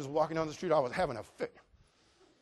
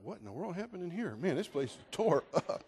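mild amazement; 6 dB quieter than usual. Retold or imitated. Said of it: "I thought".

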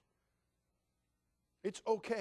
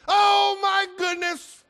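put-on much higher and much louder, a thrilled toddler's squeal; squealing little girl; 17 dB louder, much slower than usual. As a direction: squeal like a two-year-old who just spotted the presents. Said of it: "granddaughter again after told yours".

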